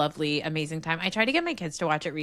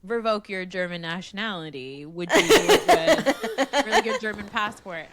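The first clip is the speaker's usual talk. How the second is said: mock sitcom voice; 4 dB louder than usual. Retelling the sitcom scene with a light voice. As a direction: play the awkward euphemism. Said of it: "he was like".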